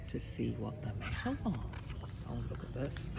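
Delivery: soft, low storytelling hush; hushed suspense. A narrator's reading. Narrator to listener as boy peeps round tree, hushed. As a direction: drop the voice as if peeping out.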